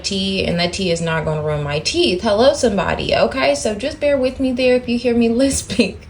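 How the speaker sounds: slight lisp from whitening strips. Real, not acted. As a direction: talk around whitening strips. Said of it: "I have my whitening strips in".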